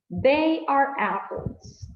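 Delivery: They are apples, slow and falling; slow model answer. Shown as a demonstration. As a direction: answer slowly and clearly. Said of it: "What are they". (respuesta modelo lenta)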